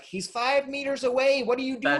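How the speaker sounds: mock exasperation at a slowpoke; lightly hammed-up impatience at a door holder; exasperated. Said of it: "it's like".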